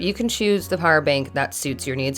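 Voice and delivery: projected promotional voice-over; sponsor read. Real, not acted. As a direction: present the product clearly to viewers. Reads the sponsor segment.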